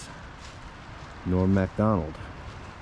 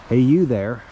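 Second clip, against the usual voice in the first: loud, raised hail to a stranger; calling out; 4 semitones higher, 8 dB louder than usual. Retold or imitated. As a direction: call across to someone, louder and higher. Calls out to a stranger.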